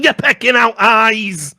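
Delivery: loud, slow indignant yell; loud slow outraged rebuttal; outraged shout. Real, not acted. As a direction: shout it in disbelief at the bird lover. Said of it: "outraged retort at quote".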